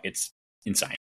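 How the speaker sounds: hushed, breathless aside; mock whisper. Pilot friend quoted in a hushed mock whisper. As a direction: say it under your breath in awe.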